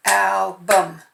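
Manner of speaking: album, tapped out by syllable; teacher tapping album out loud. Shown as a demonstration. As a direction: tap out album beat by beat. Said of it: "Let's tap them out".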